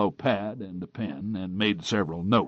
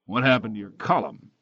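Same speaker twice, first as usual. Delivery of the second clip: sarcastic; 3 dB louder than usual. Acted.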